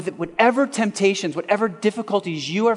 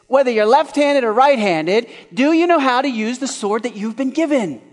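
louder, higher urgent question; preaching emphasis; 6 semitones higher, 4 dB louder than usual. Real, not acted. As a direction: press the question on the congregation. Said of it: "preaching at full force".

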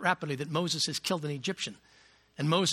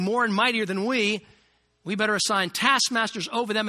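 haughty Pharaoh; 5 semitones higher, 5 dB louder than usual. Acted. Voicing the new Pharaoh.

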